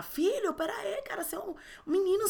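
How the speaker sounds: high, hushed whisper. Retold or imitated. Mother whispering a serious lesson to her son, high and hushed.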